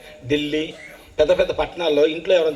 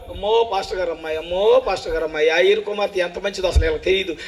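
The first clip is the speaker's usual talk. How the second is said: mock wailing mourner; 3 semitones higher than usual.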